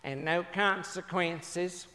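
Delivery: put-on slow, measured voice of an old mama; imitated elderly mother. Elderly mama updating her son, lightly imitated. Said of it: "She said".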